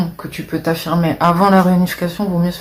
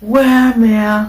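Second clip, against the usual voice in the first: teasing impression of a contestant's Turkish-Albanian accent; imitating Gustin's accent; 5 semitones higher, slower than usual. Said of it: "j'aime bien son accent un peu".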